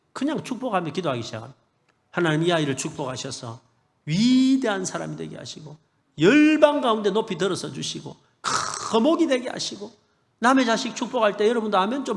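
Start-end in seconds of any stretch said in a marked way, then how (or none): 2.1-9.9 prayer of blessing. Shown as a demonstration. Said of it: "제가 이렇게 막 축복하면서 기도했어요".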